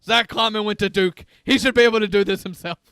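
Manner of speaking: scratchy Santa voice. Pretend. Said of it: "this accent is that Santa is using".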